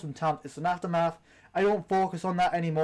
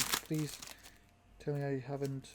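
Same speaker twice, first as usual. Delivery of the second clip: much softer, hushed worried plea; anxious plea; 4 semitones lower, 11 dB quieter than usual. Real, not acted. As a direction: murmur it, hoping nothing's broken. Fears she damaged the cover.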